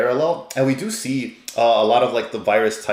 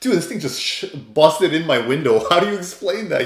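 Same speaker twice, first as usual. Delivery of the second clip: higher, incredulous "oh man, dude" rant; mock exasperation; 5 semitones higher, 3 dB louder than usual. Hiro's imagined reaction to the busted dorm window, incredulous. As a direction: play the stunned roommate complaining. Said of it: "It's like".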